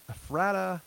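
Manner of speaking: "Ephrata" with a short a as in "rat"; tentative pronunciation. Shown as a demonstration. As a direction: say "Ephrata" as uh-FRAT-uh. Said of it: "I don't know if I'm saying that".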